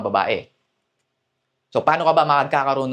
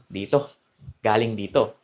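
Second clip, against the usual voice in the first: diaphragm voice; 4 semitones lower than usual. Shown as a demonstration. Coach showing the right diaphragm voice, lower. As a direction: drop down into the chest. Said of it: "speak from your diaphragm".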